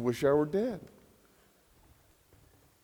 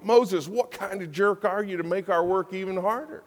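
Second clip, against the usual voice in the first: higher, exasperated complaint; indignant accusation; 6 semitones higher than usual. Acted. The people accusing Moses, higher and indignant. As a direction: blame him like a fed-up crowd.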